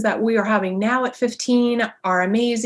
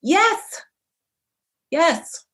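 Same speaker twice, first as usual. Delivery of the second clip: eager affirmation; 9 semitones higher than usual. Real, not acted. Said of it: "decide right now".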